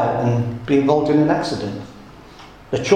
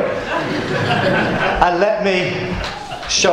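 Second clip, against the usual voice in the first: slowed by laughter; laughing; much slower than usual. Real, not acted. Preacher laughing at Scotty holding the balloon, laughing. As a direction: giggle the words out.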